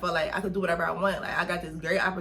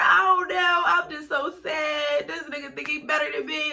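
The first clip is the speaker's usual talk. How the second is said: upset shout; 8 semitones higher than usual. Retold or imitated. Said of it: "I was like".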